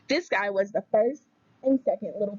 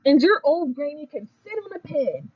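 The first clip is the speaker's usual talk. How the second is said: high, louder taunting pig; mock yell; 5 semitones higher, 4 dB louder than usual. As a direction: taunt the wolf's granny, a little louder. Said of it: "the third little pig yelled".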